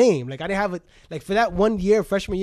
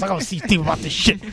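a light impression of friend Renee's voice; imitating Renee; 3 dB louder than usual. Friend Renee heading to see Steve, lightly imitated. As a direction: do Renee's casual way of talking. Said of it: "You know how Renee talks".

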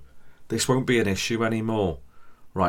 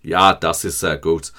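plain recited German; 2 semitones lower, 7 dB louder than usual. Retold or imitated. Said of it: "my G C S E German coming out".

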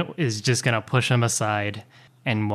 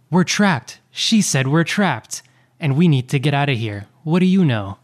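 urgent demand; 3 semitones higher, 5 dB louder than usual. Acted. Merlin confronts the captain urgently.

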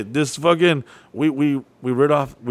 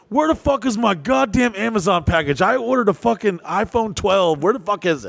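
raised, annoyed inmate demanding his package; angry demand; 6 semitones higher than usual. Pretend. Inmate yelling at the CEO over his package, angry.

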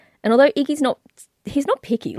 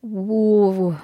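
whispered whoa. Real, not acted. Reacting to blasphemy.

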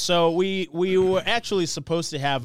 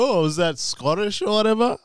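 higher mocking voice; mocking people; 9 semitones higher than usual. Mimics people who question his accent, higher. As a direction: imitate people asking.

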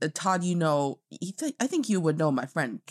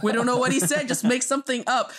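retold dismissiveness; 8 semitones higher, 3 dB louder than usual. Acts out studio brushing actor off.

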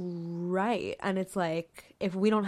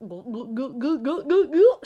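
mock gulping; 5 semitones higher, 6 dB louder than usual. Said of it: "She chugged it".

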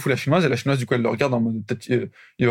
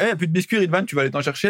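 manager quote; 4 semitones higher than usual. Retold or imitated. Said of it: "Elle disait".

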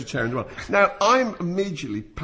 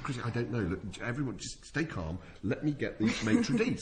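mock calming; 3 semitones lower, 6 dB quieter than usual. Calming Chrissie over the broth.

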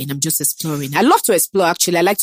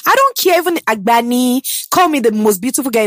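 defiant burst; 4 semitones higher than usual. Real, not acted. Boasting about entering a room.

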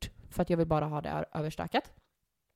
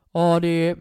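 put-on dark voice; 8 dB louder than usual. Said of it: "drar ju på en så jävla mörk röst".

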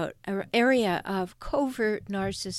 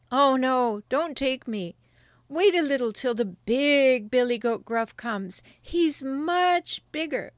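lightly voiced pleading goat; middle goat voice; 3 semitones higher, 4 dB louder than usual. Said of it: "who hadn't such a small voice".

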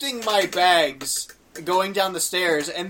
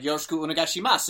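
proper Japanese phrasing; much faster than usual. Retold or imitated. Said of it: "I knew how to say it properly".

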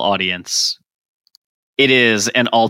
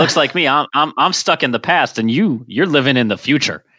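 1920s gangster talk; 2 semitones higher than usual. Acted. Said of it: "stop talking like a nineteen twenties gangster".

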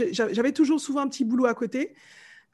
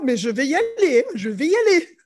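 laughing insistence; 2 semitones higher, 5 dB louder than usual. Real, not acted. Island girl vowing to enter the cold sea, laughing insistence. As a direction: insist gamely, laughing on the repeat.

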